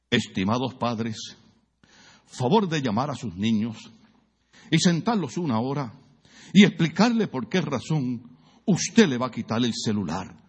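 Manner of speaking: mock psychologist. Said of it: "Los psicólogos dicen".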